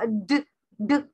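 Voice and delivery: ड as a short bare sound with no word; teacher demonstrating the lone ड sound; isolated letter sound. Shown as a demonstration. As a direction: sound out ड alone, then pause. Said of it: "तो क्या sound है इसका".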